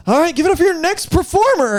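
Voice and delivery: high, mock stage announcer; show announcer. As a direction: introduce an act with hammed-up showmanship. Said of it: "they're like".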